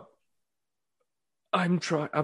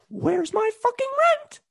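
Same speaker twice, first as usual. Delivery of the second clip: gruff impatient scolding. Pretend. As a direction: shriek it like a cartoon thug.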